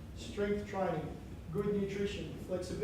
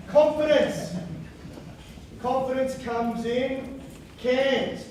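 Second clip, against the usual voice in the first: big, slow, booming motivational guru, higher and louder; Tony Robbins voice; 5 semitones higher, 5 dB louder, slower than usual. Acted. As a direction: sell it like a stage guru, drawn out. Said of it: "every so often I slip into Tony Robbins".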